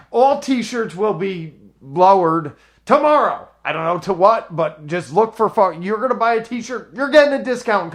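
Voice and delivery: loud, high-pitched promo rant; hyped sale pitch. Real, not acted. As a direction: announce the sale like a fired-up hype man. Hyped sale announcement to listeners.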